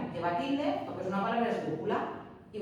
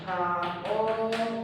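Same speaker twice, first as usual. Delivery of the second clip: caótico very slowly, every syllable stretched and held apart; much slower than usual. Shown as a demonstration. Teacher showing that strong vowels separate, caótico slowly syllable by syllable. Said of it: "por tanto van separadas".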